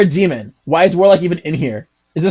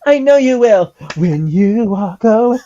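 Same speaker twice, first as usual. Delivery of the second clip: higher, louder earnest promise; hammed-up heartfelt vow; Kingdom Hearts hero; 6 semitones higher, 4 dB louder than usual. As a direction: play the dramatic game hero. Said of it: "Kingdom Hearts moment".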